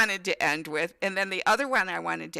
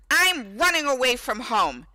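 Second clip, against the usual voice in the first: mock angry kid; 5 semitones higher, 5 dB louder than usual. Son stomps downstairs in rage.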